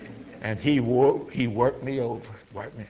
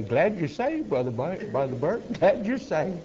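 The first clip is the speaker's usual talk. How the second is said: little stream's voice; 5 semitones higher than usual. Retold or imitated. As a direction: let the little stream gently greet him, pitched up. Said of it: "I could just hear that little stream say".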